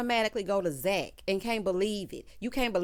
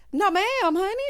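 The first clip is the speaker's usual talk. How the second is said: higher, louder sassy refusal; emphatic no; 10 semitones higher, 8 dB louder than usual. Real, not acted. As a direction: shut it down with sass.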